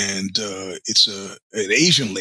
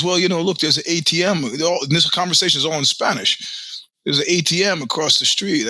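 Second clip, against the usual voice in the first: put-on Chinese accent; 5 semitones higher than usual. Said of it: "her Spanish with a Chinese accent".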